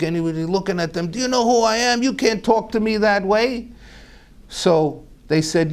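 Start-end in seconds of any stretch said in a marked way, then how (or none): 1.1-3.7 indignant. Retold or imitated. Indignant reply to insults.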